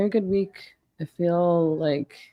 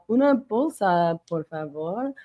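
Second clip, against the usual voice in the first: mock Spanglish. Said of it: "I keep wanting to do my, my Spanglish".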